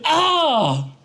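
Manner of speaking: high, slow wail in mock Russian accent; hammed-up Russian-accented howl of complaint; Hugo, Russian accent. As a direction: cry out wounded in broken Russian-accented English. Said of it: "speak of Hugo in a Russian accent".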